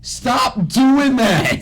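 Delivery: slow, high, drawn-out whine; high mock scolding.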